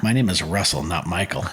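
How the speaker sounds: stone-faced reply to a wrong name; deadpan correction. Retold or imitated. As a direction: correct him with zero humour. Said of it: "there was no humor in it, nothing, just deadpan".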